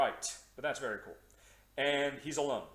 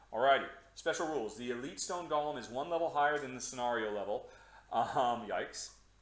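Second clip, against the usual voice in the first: normal talking voice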